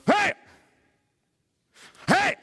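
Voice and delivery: sharp, loud yelps with a pause between; acted startled shout. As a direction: shout as if caught in sudden light. Acts out people caught by light. (grito de sobresalto actuado)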